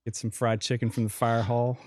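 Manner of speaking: put-on Western Pennsylvania accent slipping Southern; lightly Southern regional accent; a touch of Southern in a Pennsylvania accent; Southern-sounding accent. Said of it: "that sounded more Southern".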